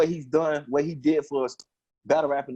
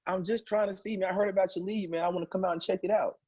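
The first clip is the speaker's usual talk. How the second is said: imitating Norbs; 6 semitones higher, 4 dB quieter than usual. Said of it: "He's like".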